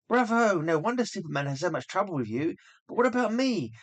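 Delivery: high, bright-eyed praise; delighted gush. Acted. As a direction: cheer the imp on. Lois delighted by magic.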